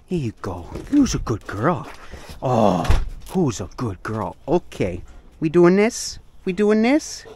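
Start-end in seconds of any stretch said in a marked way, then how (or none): 0.9-4.4 squeaky praising a dog. Real, not acted. 5.4-6.2 high playful dog talk; squeaky praising a dog. Real, not acted. Talking to the dogs. 6.4-7.2 even higher squeaky question; squeaky praising a dog. Real, not acted. Talking to the dogs.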